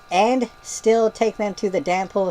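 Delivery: slow mock yell. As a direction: read it like she's shouting at you. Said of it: "She yells it".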